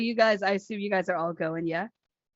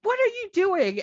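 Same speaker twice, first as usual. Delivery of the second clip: indignant; 8 semitones higher than usual. Retold or imitated. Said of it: "she's like".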